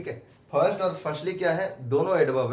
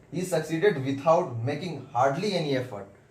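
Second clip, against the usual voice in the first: very slow, every word spaced out; slow dictation; much slower than usual. Shown as a demonstration. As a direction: read it out slowly so the class can copy. Teacher dictating full sentence. (बहुत धीरे, शब्द-शब्द लिखवाते हुए)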